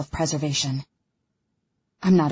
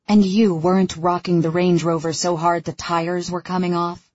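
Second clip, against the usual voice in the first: sarcastic. Acted. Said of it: "I say sarcastically".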